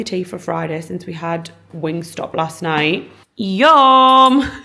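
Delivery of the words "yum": excited. Real, not acted. Tasting the dinner, delighted.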